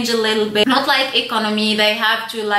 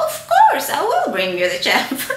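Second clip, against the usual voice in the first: laughing mock compliance; 3 semitones higher than usual. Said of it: "And I'm like".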